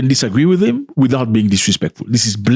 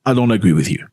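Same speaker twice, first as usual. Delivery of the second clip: mild, respectful objection; polite disagreement. Acted. Showing how to disagree with an elder, politely. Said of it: "speak to him politely".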